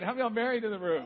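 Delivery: fast, loud, rousing call to the crowd. Shown as a demonstration. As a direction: pump up the room, shout it. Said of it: "let me try that again".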